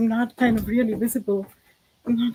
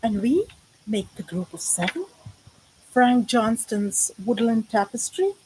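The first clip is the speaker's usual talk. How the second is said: measured recital with lingering key words; poem recital. Acted. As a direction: recite it line by line, stretching the names and images.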